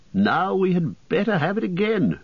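light, lilting elf voice. Acted. Elf speaks to Bilbo.

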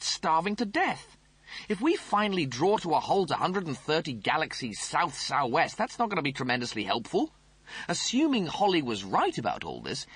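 high, snooty officer voice; pompous Rimmer voice. Acted. Rimmer demands.

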